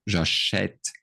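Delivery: J'achète with an open "eh" in the second syllable; audible accent è. Shown as a demonstration. Teacher asking if students hear the accent, clearly pronounced J'achète. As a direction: sound out J'achète as ja-SHETT. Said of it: "Can you hear the accent?".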